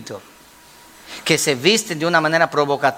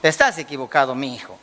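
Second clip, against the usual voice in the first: loving correction; 3 semitones lower than usual. Acted. Pastor's wife tells husband he's mistaken, lovingly. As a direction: let the reproof sink gently. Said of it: "Con todo el amor del mundo te digo".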